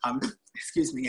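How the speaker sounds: talking through hiccups; hiccuping mid-sentence. Real, not acted. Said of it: "I have the hiccups".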